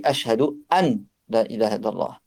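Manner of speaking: "ashhadu an la ilaha illallah" keeping the n of "an"; a clear n before "la", allowed but not best; acceptable pronunciation. Shown as a demonstration. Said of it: "c'est valable s'il dit". ("an la" avec le noun prononcé, valable)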